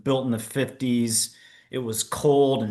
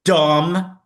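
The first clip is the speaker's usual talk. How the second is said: scoffing; 5 semitones higher, 7 dB louder than usual. Retold or imitated. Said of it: "I was like".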